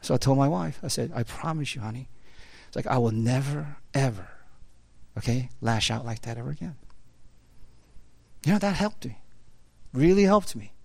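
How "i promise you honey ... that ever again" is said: soft, low retold vow; earnest promise. Husband promising his wife after lashing out, earnest and hushed. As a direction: quietly pledge it, re-enacting the moment.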